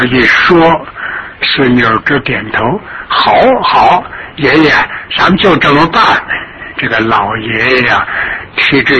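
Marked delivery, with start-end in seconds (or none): 3.1-6.0 eager granddaughter. Acted.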